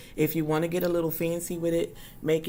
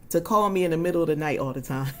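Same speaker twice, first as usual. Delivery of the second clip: laughing; 4 dB louder, faster than usual. Real, not acted. Laughing while retelling.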